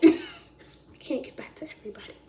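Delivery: high, breaking into laughter; helpless giggly protest; laughing apology. Acted. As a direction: squeeze the words out through a laugh.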